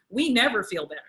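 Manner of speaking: normal talking voice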